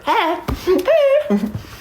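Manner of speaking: high-pitched excited squeak; high fangirl yelp; giddy squeal. Retold or imitated. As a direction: let out a tiny starstruck squeal. Mimics own thrill at meeting DJ.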